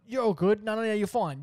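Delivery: retold panicky reassurance; hurried reassurance. Reassuring bleeding mum in panic.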